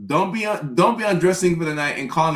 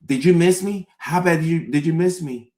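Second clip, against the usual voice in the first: put-on girlfriend asking; 4 semitones higher, 4 dB louder than usual. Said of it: "she'll say".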